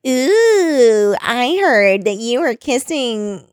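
high, drawn-out mock tease; imitating a nosy, taunting tease; teasing. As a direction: sing out the gossip, slow and high. The speaker teasing about a kiss.

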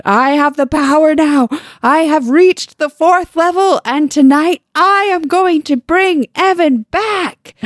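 high, hammed-up wizard declaration; grand proclamation. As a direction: declaim it slowly and loudly, building to the end. Brian's proclamation continues in the book.

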